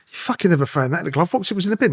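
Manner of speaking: retold protest, rising high at the end; indignant protest. Suspect protesting to the officer about planted evidence, indignant. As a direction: protest it in disbelief, pitch climbing.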